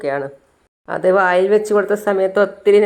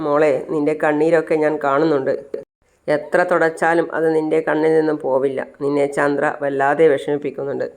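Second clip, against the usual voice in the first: understated, slightly subdued sympathy; gentle consoling; 3 semitones lower than usual. Acted. Father-in-law comforts tearful Revathi, gently consoling. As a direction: console her gently, letting it sink.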